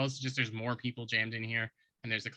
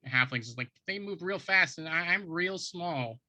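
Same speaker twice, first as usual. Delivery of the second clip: halfling sous chef; 4 semitones higher than usual. Acted. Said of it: "sous chef speaks up and says".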